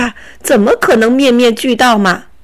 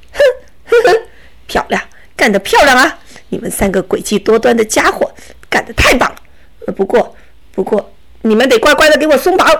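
scoffing bandit, quick and smug; sneer, then order them to untie you; gloating robber; faster than usual. Acted. Robber gloats, then demands release. (强盗得意地冷笑)

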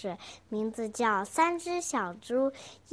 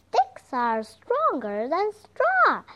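unafraid; 5 semitones higher, 5 dB louder, slower than usual. Acted. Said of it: "said the second little pig, unafraid".

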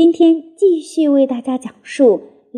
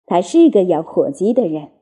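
father fox; 6 semitones lower than usual. Acted. Mr Fox replies to cub.

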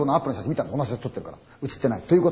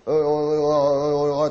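slow, drawn-out ghost calling; ghostly calling; 3 dB louder, slower than usual. Retold or imitated. Storyteller imitating the ghost calling from the bushes, slow eerie call. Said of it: "って言われたんですよ".

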